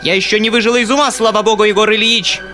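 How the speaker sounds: high, furious tirade at Egor Ilyich; furious yelling. A narrator's reading. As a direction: scold him in a shrill rage. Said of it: "продолжала она вопить". (яростный крик, высоким голосом)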